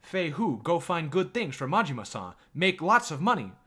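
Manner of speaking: high, insistent mock-Chinese accent; put-on Chinese accent. Shopkeeper sending Fei Hu to find good things, high Chinese accent. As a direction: order him about in a caricatured Chinese accent. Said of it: "racist Chinese accent".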